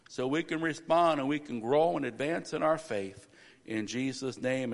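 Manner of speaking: calm, low-pitched pastoral prayer. Real, not acted. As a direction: lead the church gently in prayer. Opening prayer before the sermon.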